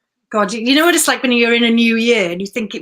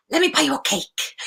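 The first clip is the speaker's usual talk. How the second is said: put-on kind old friend inviting; 4 semitones higher than usual. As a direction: coax her to stay for cake and coffee. Phil's invitation repeated fondly.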